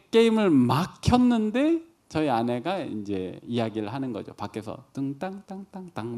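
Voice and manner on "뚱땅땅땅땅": soft, high sung-out beeps; imitated dryer chime. Dryer finishing outside the room, softly imitated chime. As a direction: softly mimic an appliance's finishing jingle. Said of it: "뭐 이렇게 소리가 나요".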